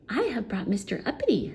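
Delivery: quick, lightly voiced goblin. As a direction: announce it briskly. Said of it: "said the goblin".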